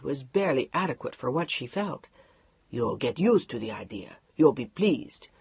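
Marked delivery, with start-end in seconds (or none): 2.7-5.3 low, hushed, half-whispered reassurance; calm husband. Acted. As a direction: soothe her as if it's settled. Mark calmly insisting.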